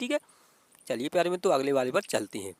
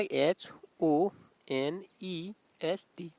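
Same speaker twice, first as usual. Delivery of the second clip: teacher dictating the spelling "H O N E S T" slowly; much slower than usual. Shown as a demonstration. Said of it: "H में देखिए".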